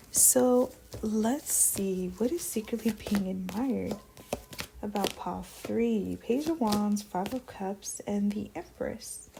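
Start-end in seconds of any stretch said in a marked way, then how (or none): 0.1-6.2 whispered musing. Real, not acted. Reader musing over drawn cards. 7.0-9.3 soft whisper, naming each card; whispered card names. Real, not acted. Whispering card names while reading.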